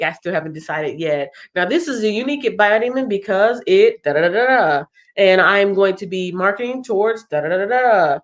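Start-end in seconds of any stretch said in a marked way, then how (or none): 1.6-8.2 elevator pitch. Shown as a demonstration. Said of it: "you just follow your own script".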